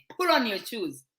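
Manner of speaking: "Pull on" for put on, the t lost; American-style slurring. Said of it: "they say "pull on".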